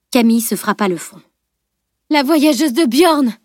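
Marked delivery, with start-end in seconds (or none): 2.1-3.3 higher, drawn-out exasperated outburst; slow, raised-pitch cry of exasperation; exasperated interruption. A narrator's reading. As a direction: cut in, aghast at the blunder. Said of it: "le coupa-t-elle".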